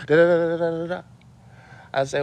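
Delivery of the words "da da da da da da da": rattled-off string of da syllables; rapid da-da-da. Real, not acted. Speaker capping a rant with nonsense, rapid da-da-da. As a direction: rattle off da-da-da like a machine.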